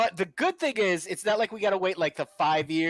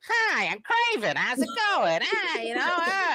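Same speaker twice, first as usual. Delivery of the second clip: high, breezy, friendly guy voice; mock a laid-back chatty hero; casual Kraven; 10 semitones higher, slower than usual. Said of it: "And he's just kinda like".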